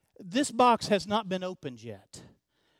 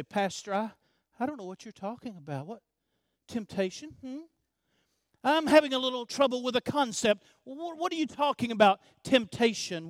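mock puzzled listener; faster than usual. Pastor mimicking a doubting listener, mock puzzled. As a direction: play dumb about temptation, hammed-up.

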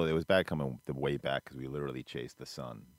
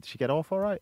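higher, louder imitated English accent; mock English accent; 14 semitones higher, 5 dB louder than usual. Mocking own slip in front of cousin, exaggerated English accent. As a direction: play up the English lilt, pitched high. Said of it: "when have I ever in America said".

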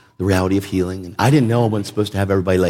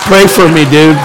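louder, higher stunned plea; amazed plea; 5 semitones higher, 8 dB louder than usual. Retold or imitated. The speaker telling Heidi Baker's miracle son pray for me, amazed. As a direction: blurt it out in awe. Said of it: "I'm like".

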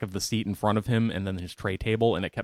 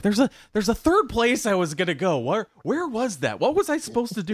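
puzzled self-quote; 12 semitones higher, 3 dB louder than usual. Retold or imitated. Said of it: "And I'm like".

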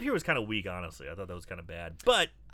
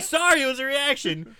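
sheepish apology; 10 semitones higher, 6 dB louder than usual. Retold or imitated. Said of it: "He's like".

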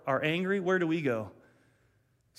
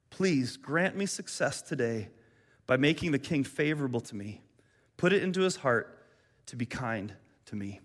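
prayer reading. Acted. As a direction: plead gently, letting each line settle. Reads end of Nehemiah's prayer.

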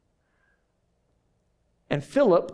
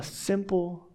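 whispered word; 6 dB quieter than usual. Real, not acted. Preacher whispering the key word to the church, hushed. Sermon point trailing to hush.

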